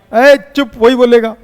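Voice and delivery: teacher loudly hushing noisy students; sharp hush. Real, not acted. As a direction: cut the class off loudly. Teacher hushes class sharply.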